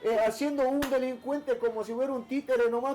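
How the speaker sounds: a hint of mom lecturing her son, amused; voicing his mother. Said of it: "mi mamá siempre me decía".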